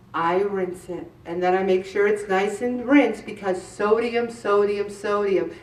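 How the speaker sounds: hushed warning about sodium; quiet emphatic repetition. Shown as a demonstration. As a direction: drop the voice and hammer sodium. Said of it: "repeating for emphasis".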